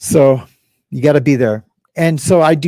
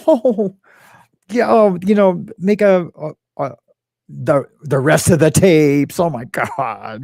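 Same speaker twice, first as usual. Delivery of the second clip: high, loud, laughing-off mock voice; mocking a friend laughing everything off, high; mocking impression; 4 semitones higher, 3 dB louder than usual. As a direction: sneer at how small everything is. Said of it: "I can't impersonate her".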